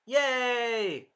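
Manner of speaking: high little cheer. Real, not acted. Praising the episode to viewers, cheering. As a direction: celebrate the score. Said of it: "Two hundred points for this episode".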